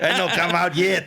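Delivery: laughing through the line; amused giggly delivery. Real, not acted. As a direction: chuckle the words out.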